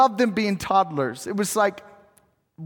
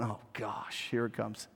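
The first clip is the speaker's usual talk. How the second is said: put-on imagined teen groan; 10 semitones lower, 15 dB quieter than usual. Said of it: "I just had this thought".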